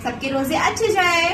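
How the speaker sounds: high, slow prompting voice. Real, not acted. Mother prompts child to repeat greeting.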